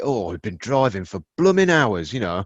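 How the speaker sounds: put-on Yorkshire accent; mock Yorkshire traveller's voice. Imagining a weary driver on a long journey, Yorkshire accent. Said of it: "Is that what that accent was?".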